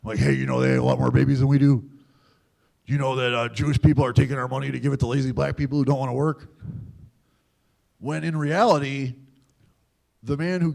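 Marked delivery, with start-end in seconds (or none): 0.2-6.5 louder, fast, pushy pitch; young skinhead's pushy recruiting pitch, louder. Retold or imitated. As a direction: sell the lie to a coworker. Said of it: "I'd try to recruit them".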